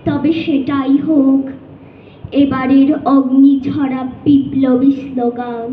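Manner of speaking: impassioned, measured declamation with ringing phrases and long pauses; poem recitation. Acted. Student reciting to judges a poem rallying young protesters, impassioned declamation. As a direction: recite a rousing protest poem, line by deliberate line. আবৃত্তি করছি কবি.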